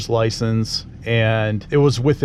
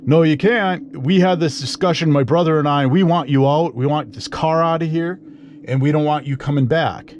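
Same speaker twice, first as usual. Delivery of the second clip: higher, insistent retold refusal; mock screaming; 5 semitones higher than usual. Owner's brother throwing him out of the garage, mock angry. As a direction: imitate an angry man ordering someone out, not full volume. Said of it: "this guy's just screaming at me".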